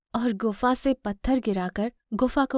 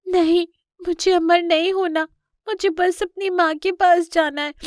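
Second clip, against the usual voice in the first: put-on high, insistent child voice; pleading cub; 8 semitones higher, 4 dB louder than usual. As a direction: refuse and plead to go to Ma. Cub refuses magic, wants his mother. (ज़िद करते बच्चे की ऊँची, मिन्नत भरी आवाज़)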